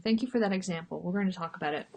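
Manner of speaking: stuffy nose from the cold; sniffly. Real, not acted. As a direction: speak through a sniffly nose. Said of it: "Sorry, I'm sniffly".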